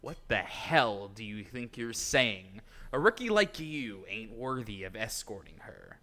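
scornful scolding. Acted. Gang member scolding a rookie.

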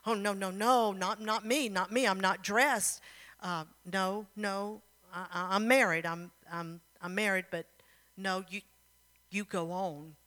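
halting, stammered protest; mildly flustered, backing out; flustered refusal. Acted. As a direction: stumble over repeated excuses. Flustered wife refuses the prince.

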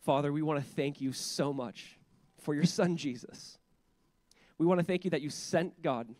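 unhurried prayer with long pauses; leading prayer. Real, not acted. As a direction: pray aloud, phrase by phrase. Leads congregation in prayer.

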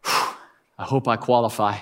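imitating a nervous kid with an anxious exhale; nervous child. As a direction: blow out a breath, then a small worried voice. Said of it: "Jonah starts getting nervous".

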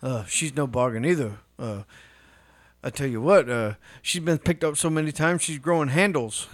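lightly imitated stand-up comic; a hint of an old-school comedian griping about family; Rodney Dangerfield. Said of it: "Rodney Dangerfield".

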